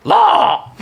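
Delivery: high loud call into the air; shouting his own name. Acted. Lawman shouts his name to the sky, loud and high. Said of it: "looks up in the air and goes".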